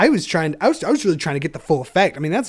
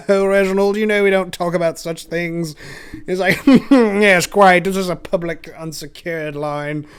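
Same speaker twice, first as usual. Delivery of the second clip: put-on louder, scandalised British accent; prim British scout; 5 dB louder than usual. Scolding Reginald over the line, British accent. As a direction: hush him, prim and British. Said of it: "an effeminate British man".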